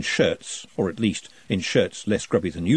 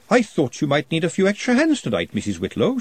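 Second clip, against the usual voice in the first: high, sugary politeness; sweet as pie to her superior; sweetly; 6 semitones higher than usual. A narrator's reading. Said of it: "she said sweetly".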